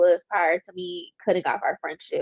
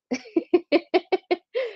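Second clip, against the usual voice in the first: laughing; 10 semitones higher than usual. Real, not acted. Laughs at own complaint.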